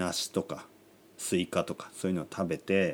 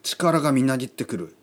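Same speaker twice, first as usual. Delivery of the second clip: amazed power-up; 4 semitones higher than usual. Retold or imitated. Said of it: "みたいな".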